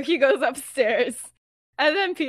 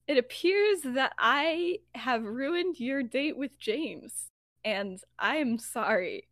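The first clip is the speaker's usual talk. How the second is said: slow, deliberate confession; acted measured, halting apology; stiff apology; slower than usual. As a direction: spell out a formal apology slowly.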